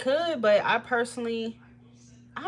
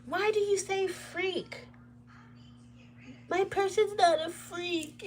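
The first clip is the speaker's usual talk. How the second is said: high, slow whiny imitation; mock upset commenter; 12 semitones higher, slower than usual. Reader imitating an offended Pisces viewer, slow and whiny. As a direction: whine it like an offended fan.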